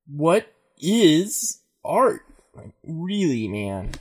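very slow, spaced-out stoner; drawn-out stoner philosophizing. Acted. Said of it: "Eric can do his stoner voice".

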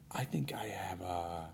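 slow, hushed confession; confiding whisper. Retold or imitated. Confiding in a friend at the game, retold whisper. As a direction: whisper it slowly, as if embarrassed.

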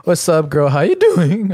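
flirty phone voice. Retold or imitated. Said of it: "It's like".

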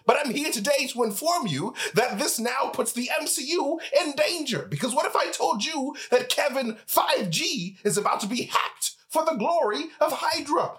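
put-on grumpy old geezer scolding youngsters; old prospector. Old-timer scolding the youths.

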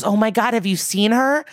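mildly excited retold outburst. Retelling a dad's reaction to news of his daughter, excited. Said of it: "he gets so excited".

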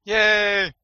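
high, loud happy cheer; excited cheer. Real, not acted. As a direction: celebrate it playfully. Cheering friend's busy weekend.

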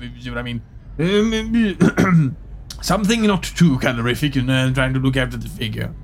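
pompous officer. Acted. Pompous officer demands snack.

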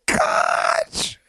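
high voice climbing to a drawn-out squeal; overexcited detective. Acted. Mock detective cracking a trivial case, giddy. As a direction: build the fake triumph to a squeak. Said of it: "we're gonna introduce a new character".

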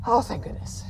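breathy whispered relief; relieved sigh. Acted. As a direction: exhale it in relief. Relieved after escaping.

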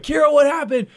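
retold yell. Dad calling daughter from bathroom, retold yell. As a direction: call out urgently to another room. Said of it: "yelling, like".

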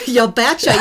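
playful Wisconsin "betcha" rising at the end; Wisconsin accent. Pretend. Host owning her Wisconsin accent, laughing. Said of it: "throw in my Wisconsin accent".

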